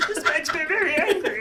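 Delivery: high Marvin the Martian voice; cartoon Martian, playful. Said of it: "In front of a really angry song".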